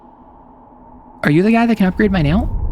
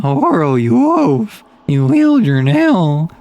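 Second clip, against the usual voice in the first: character voice; slower than usual. Acted. Reads game character dialogue.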